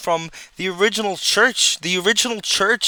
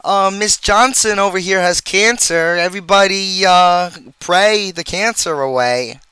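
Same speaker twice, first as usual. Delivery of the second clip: mock churchgoer; 3 semitones higher, 4 dB louder than usual. Church members announcing a sick woman to everybody, mocking. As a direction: imitate a congregation rallying everyone to pray. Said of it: "They'll be like".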